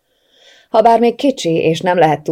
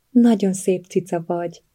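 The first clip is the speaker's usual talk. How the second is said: cooing flattery. A narrator's reading. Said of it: "hízelektem neki".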